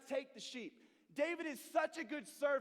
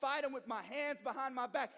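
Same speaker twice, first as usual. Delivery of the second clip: taunting; 2 semitones higher, 3 dB louder than usual. Retold or imitated. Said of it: "He's taunting them".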